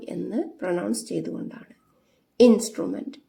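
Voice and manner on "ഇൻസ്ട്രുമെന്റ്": ഇൻസ്ട്രുമെന്റ് begun with a clear short "i"; short i sound. Shown as a demonstration. Teacher showing pupils the i sound in ഇൻസ്ട്രുമെന്റ്, clearly. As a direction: say ഇൻസ്ട്രുമെന്റ് opening on a crisp "i" vowel. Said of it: "ഇവിടെ ഈ".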